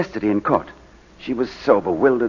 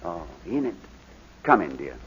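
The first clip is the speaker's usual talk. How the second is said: low, soft greeting to his wife; subdued affection; tender; 9 semitones lower, 13 dB quieter than usual. Acted. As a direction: drop the voice gently to welcome her. Husband greets wife entering.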